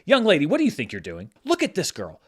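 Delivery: stern fatherly scolding, a bit quick; dad voice. Pretend. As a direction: lecture her like a strict dad. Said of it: "put on my dad voice".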